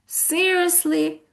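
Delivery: disbelieving. Shown as a demonstration. Teacher gives another tone for students, disbelieving. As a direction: stretch the word out in disbelief. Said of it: "or if I say".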